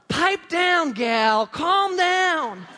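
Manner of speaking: high, exasperated acted order; telling her off. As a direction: tell a noisy fan to settle down. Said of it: "I want to tell her".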